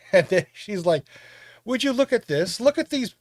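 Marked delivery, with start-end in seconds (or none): 1.6-3.1 high, mock-scandalized squeal of disbelief; mocking gasp. Yaz mocking the girlfriend's underwear.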